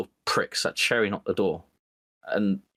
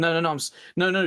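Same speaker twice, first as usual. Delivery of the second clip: mock scared; 6 semitones higher than usual. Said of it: "No, I'm scared".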